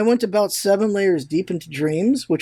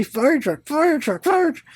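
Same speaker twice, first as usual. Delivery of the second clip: each fire truck climbing much higher, a mock angry plea; frustrated repetition; 8 semitones higher than usual. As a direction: push each repeat higher like a frustrated man nobody understands. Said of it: "they will just be really angry and just say".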